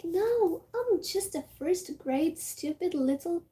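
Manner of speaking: a hint of a fake-cute kid greeting; playing innocent child. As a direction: act like a harmless first grader. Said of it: "trying to be like".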